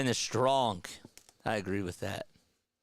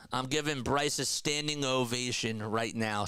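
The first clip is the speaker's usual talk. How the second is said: dry sarcastic praise; mock applause, deadpan.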